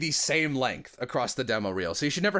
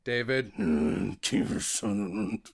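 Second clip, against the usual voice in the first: Solid Snake voice; 5 semitones lower, slower than usual. Acted. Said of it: "no impressions".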